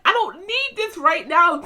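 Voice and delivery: high-pitched, drawn-out complaint; dramatized fed-up wail; retold exasperation. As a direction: whine it slowly, overwhelmed. Retold exasperation amid the chaos.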